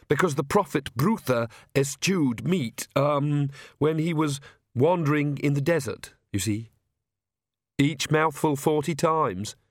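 put-on timid, apologetic young priest, stumbling over words; fretful clergyman who can't get a sentence out; nervous stammering priest. Priest Oates speaks.

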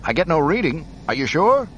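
high, loud radio shout; shouted over radio. Acted. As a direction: yell back over the comms. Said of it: "Red Leader's voice shouted back".

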